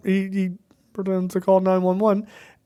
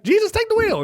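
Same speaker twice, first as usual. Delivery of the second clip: mock cry, much higher; mock dramatic cry. Wife grabbing the wheel, mock dramatic high cry. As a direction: fling it up high like a melodramatic plea.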